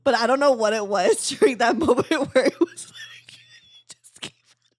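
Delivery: whispering through laughter; laughing whisper. Real, not acted. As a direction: giggle it out under your breath. Laughing while telling the story.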